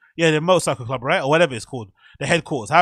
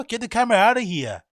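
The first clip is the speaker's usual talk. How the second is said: higher-pitched mock Fargo accent; imitated Fargo-like accent; 5 semitones higher than usual. Guessing where the man is from, mimicked Fargo accent. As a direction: try out a Fargo-style regional accent. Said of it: "Is it Fargo?".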